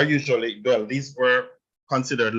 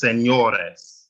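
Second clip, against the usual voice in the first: señores slowly, leaning on "ño"; slow demo of "señores" as se-ÑO-res; stress on the O. Shown as a demonstration. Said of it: "is where you stress the O".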